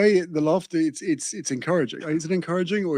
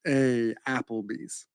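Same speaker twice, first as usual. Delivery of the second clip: A, Applebee's said slowly with a long first A; stress on the A; 6 dB quieter, much slower than usual. Shown as a demonstration. Guest copying the coach's stressed Applebee's. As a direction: drag out the A of Applebee's. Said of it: "really emphasize the A".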